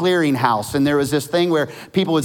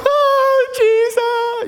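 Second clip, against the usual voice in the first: far higher, shouted disbelief; ecstatic shout; much slower than usual. Retold or imitated. Winner shouts in disbelief at the giveaway. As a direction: yell out in shock and joy. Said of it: "People are like".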